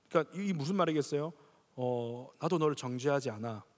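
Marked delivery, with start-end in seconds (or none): 2.4-3.6 gentle Jesus voice. Shown as a demonstration. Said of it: "어떻게 예수님 말씀하셨겠어요?".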